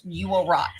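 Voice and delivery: ordinary talk, nothing marked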